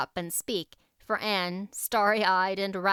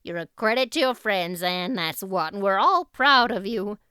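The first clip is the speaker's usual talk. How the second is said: hearty; 4 dB louder than usual. Acted. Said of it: "said heartily".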